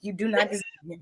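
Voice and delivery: breathy whispered fast aside. Retold or imitated. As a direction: hiss it under your breath, quick. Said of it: "the whole time I'm like".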